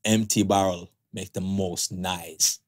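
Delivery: put-on slow, careful Jamaican accent; second try at the Jamaican proverb. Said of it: "Take two".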